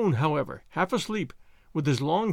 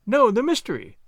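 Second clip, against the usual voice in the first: raised and higher, pressing eagerly; crying out; 6 semitones higher, 5 dB louder than usual. A narrator's reading. Watson pressing Holmes about the solved case, crying out. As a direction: cry it out louder and higher. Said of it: "I cried".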